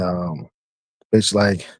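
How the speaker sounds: ordinary talk, nothing marked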